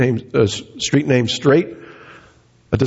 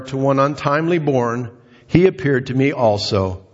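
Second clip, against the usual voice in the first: scripture reading. Shown as a demonstration. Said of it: "Paul wrote these words".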